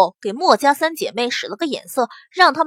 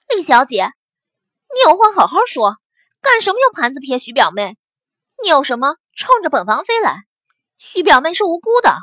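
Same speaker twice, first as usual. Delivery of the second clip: righteous indignation; 3 semitones higher, 4 dB louder than usual. Acted. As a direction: protest loudly, playing the righteous one. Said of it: "义愤填膺".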